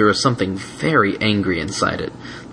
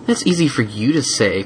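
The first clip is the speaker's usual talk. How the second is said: grumbling; 3 semitones higher than usual. Acted. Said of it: "grumbled the dragon".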